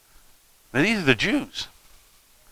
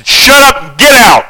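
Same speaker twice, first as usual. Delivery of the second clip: shout; 7 semitones higher than usual. Acted. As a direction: bark the demon out. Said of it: "The modern translation is".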